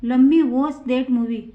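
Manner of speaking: slow, clear example for students; teacher reading it out slowly to the class; slow model sentence. Shown as a demonstration. Teacher models the sentence, slow and clear. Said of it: "तीसरा example है".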